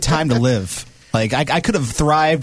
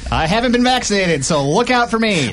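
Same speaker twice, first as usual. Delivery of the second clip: 1940s radio announcer; 5 semitones higher than usual. Pretend. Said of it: "I feel like I'm getting into that, too".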